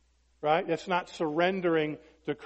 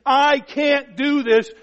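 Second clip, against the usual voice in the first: pleading surrender; 8 semitones higher, 9 dB louder, much slower than usual. Acted. Voicing a believer surrendering to God.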